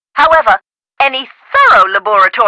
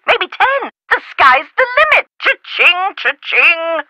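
gleeful; 4 semitones higher than usual. Acted. Gleeful guess at skull's value.

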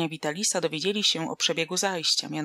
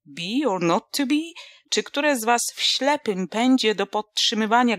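higher, louder grandiose speechifying; a tipsy philosopher holding forth to youngsters; mock lofty oration; 4 semitones higher, 5 dB louder than usual. Drunk philosopher lectures the youths.

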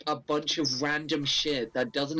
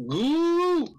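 high squeak; 13 semitones higher, 6 dB louder than usual. Acted. Joking game callout.

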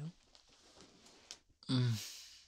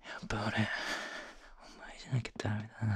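whispering; much faster than usual. Acted. Intimate confession to lover.

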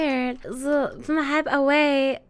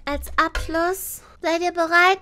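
hype host; 6 semitones higher, 5 dB louder than usual. Acted. Hyping chat for finale.

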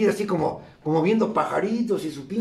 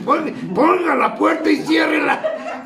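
raised, higher-pitched comic order; shouted order; 6 semitones higher than usual. Retold or imitated. Speaker orders his group to shut the door, shouted order. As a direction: call out the order with urgency.

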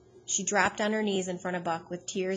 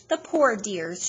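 pitying cry; 4 dB louder, slower than usual. Acted. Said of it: "she cried".

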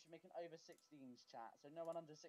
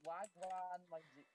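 slow London roadman greeting; London roadman accent, slow; London roadman slang; slower than usual. Shown as a demonstration. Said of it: "British roadman".

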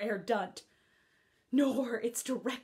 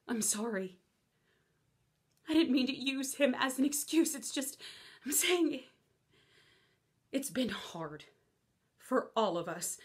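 subdued apology. Acted. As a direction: back down after the fight. Apology after the outburst.

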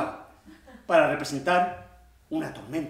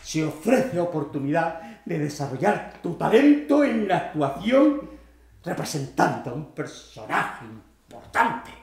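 mildly declaimed job advert; leaflet read aloud; 2 semitones higher, 4 dB louder than usual. Acted. Actor reading out a casting leaflet, mildly declamatory. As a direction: read the leaflet out grandly, swelling midway. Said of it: "después de leer una octavilla".

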